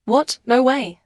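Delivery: a sudden jolt of disbelief at the news; shocked disbelief. Acted.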